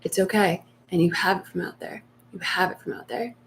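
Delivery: soothing answer in the same urgent tone; reassuring reply. Shown as a demonstration. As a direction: answer the panic calmly, easing down. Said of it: "In the same tone".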